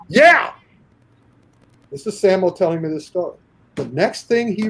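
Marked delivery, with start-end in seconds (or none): 0.1-0.5 high, loud eager yes. Retold or imitated. Sammo falling for Bruce's trick, high and loud. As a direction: lean in and shout yes. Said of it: "leans in and goes".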